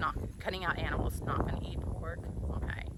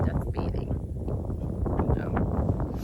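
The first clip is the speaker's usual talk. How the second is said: laughing; 9 semitones higher, much slower than usual. Real, not acted. Laughing over the word.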